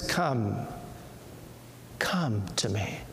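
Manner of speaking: soft, low, hushed call from the Lord; whisper of the Lord. Acted. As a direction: call gently as a quiet inner voice. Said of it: "They hear the whisper of the Lord".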